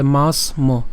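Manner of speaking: মাস ম with the final "mo" set apart; split pronunciation. Shown as a demonstration. Teacher separating syllables for learners, মাস then ম. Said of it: "মটাকে আলাদা উচ্চারণ করছি".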